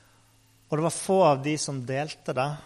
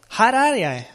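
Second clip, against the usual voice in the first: ropt svar; 4 semitones higher, 4 dB louder than usual. Acted. Samuel svarer når Herren roper.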